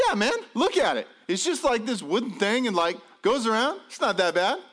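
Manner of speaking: high, eager reassurance; cheerful salesman-like dad; upbeat persuading. Retold or imitated. Dad talking son into a ride.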